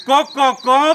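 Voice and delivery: rhythmic imitation of a rooster's call; lightly voiced rooster refrain; crying rooster. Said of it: "कोंबो रडटा".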